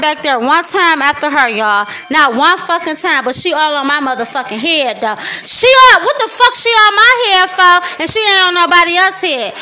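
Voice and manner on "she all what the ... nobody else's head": angry outburst. Real, not acted. Ranting about her supervisor.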